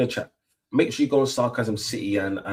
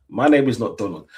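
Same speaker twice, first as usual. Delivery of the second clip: firm, louder correction; louder indignant repeat; 5 dB louder than usual. Real, not acted. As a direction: insist on it, pushing harder. Protesting wrong name.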